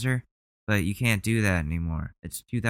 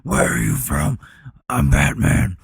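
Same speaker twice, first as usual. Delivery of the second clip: higher, mocking imitation of a pushy interrogator; mocking the questioner; 6 semitones higher, 5 dB louder than usual. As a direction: parrot him like a cartoon villain hunting Batman. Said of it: "Why are you asking those questions?".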